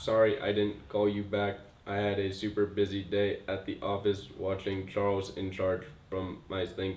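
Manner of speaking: flat, deep, hushed, monotone robotic drone. A player takes a turn in an accents game: robot voice. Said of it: "The accent is robot".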